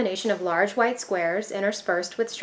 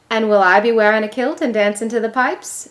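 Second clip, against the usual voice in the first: put-on playful Scottish accent, louder; 7 dB louder than usual. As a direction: tease back in a Scottish accent. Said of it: "trying to imitate her father".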